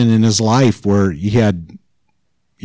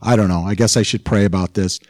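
mild, offhand half-hearted prayer; noncommittal, take-it-or-leave-it asking; casual prayer. Acted. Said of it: "kind of a casual prayer".

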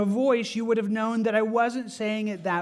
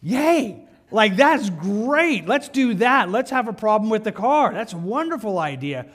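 mock delight; 3 semitones higher, 5 dB louder than usual. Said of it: "bop up in your dash and go".

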